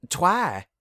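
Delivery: sudden high alarmed cry of a name; startled cry of a friend's name; shocked cry. Acted. Applejack sees injured Twilight.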